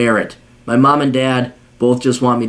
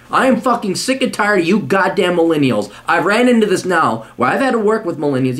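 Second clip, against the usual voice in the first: exasperated, pitch raised a little; fed-up rant; 3 semitones higher than usual. Real, not acted. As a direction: vent your disgust at them. Angry rant at letter writer.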